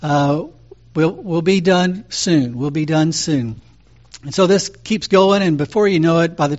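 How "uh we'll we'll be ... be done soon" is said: very calmly. Retold or imitated. Father soothing his son at the store, calm and even. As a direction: keep it calm and patient, slowing down. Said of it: "saying very calmly".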